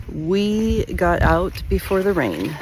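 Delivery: cheerful, eager morning report; excited. Real, not acted. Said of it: "So excited".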